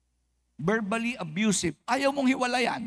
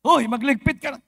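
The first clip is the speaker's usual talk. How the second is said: louder nagging mom order; mother yelling; 4 semitones higher, 7 dB louder than usual. Retold or imitated. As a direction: snap the chore at the kid like a mom. Mother yelling at child nearby. (sigaw ng nanay na nag-uutos)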